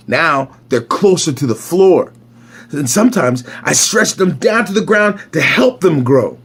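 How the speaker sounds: lively picture-book read-aloud; story narration. A narrator's reading. Reader telling a boy's morning routine, story narration. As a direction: read it clearly for young children.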